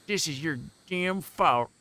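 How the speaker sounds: Cockney thug. A narrator's reading. Thugs yelling blame at narrator, put-on Cockney accent. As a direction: blame them in a hammed-up Cockney. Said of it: "gonna say Cockney".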